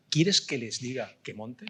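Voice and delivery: slow, kindly offer as Jesus; lightly voiced Jesus, slow and inviting; gentle Jesus voice. Preacher voicing Jesus offering the fiery horses, slow and kind.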